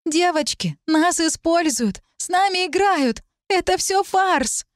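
high, slow, desperate pleading; distressed pleading. Acted. Talit pleading with the girls, high and desperate. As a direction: beg the girls to see it.

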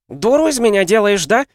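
высоко и громко, злобно; в ярости замахивается вазой; яростный крик. A narrator's reading. Настя в ярости. (злой крик)

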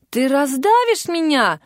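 пискляво, придавленно; squeaky. A narrator's reading. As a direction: squeak it out, half-squashed. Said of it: "пискнула под ним Ника".

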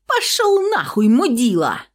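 very high loud screaming curse; furious shout. Acted. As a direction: hurl it at him in rage. Girl swears leaving in rage.

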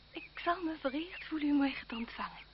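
soft whispered acceptance; demure whisper. Acted. The lady to the marquis, soft coy whisper. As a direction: breathe it coyly to the suitor.

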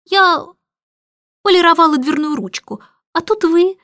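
flustered high drawl; drawn-out excuse. Acted. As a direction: housekeeper caught at the door, fumbling a high excuse. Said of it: "протянула миссис Брил".

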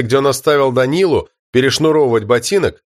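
plain reading voice

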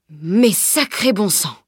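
slow, drawn-out amazed exclamation; exclamation étonnée. Acted. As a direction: exclaim it as an astonished carter. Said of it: "s'exclama-t-il". (juron étonné, lent et appuyé)

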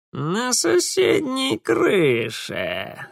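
high, slow grating voice; grating Mara. A narrator's reading. Mara perched on the pipe, grating reply. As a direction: scrape the words out like a creature. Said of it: "скрижетнула Мара".

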